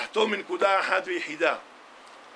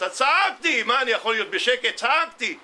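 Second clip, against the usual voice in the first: student's protest re-enacted with a jump in pitch; mock indignant cry; 5 semitones higher than usual. Student defending himself to the rabbi, mock indignant cry. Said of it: "ועמדתי בתיבה וצעקתי".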